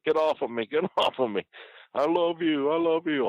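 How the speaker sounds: high-pitched mock protest; Jake. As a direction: imitate a pinned man whining and pleading. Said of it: "He's like".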